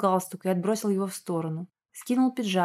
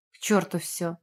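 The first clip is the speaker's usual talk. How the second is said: growled; 3 semitones lower than usual. A narrator's reading. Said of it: "раздался рык Руслана".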